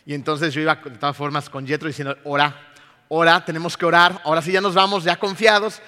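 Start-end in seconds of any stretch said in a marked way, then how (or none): 2.2-5.8 louder, eager call to pray; eager urging. Retold or imitated. Father urging his son to pray, eager and loud. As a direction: push him to pray with excitement.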